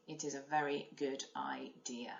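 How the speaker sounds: soft unvoiced whisper to the class; whispered aside. Real, not acted. Teacher whispering an aside to pupils, hushed. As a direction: whisper it like a little secret.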